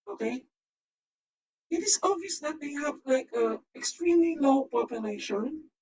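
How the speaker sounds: digitally filtered voice. Real, not acted. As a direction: talk through a voice changer. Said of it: "I need to use my voice filter".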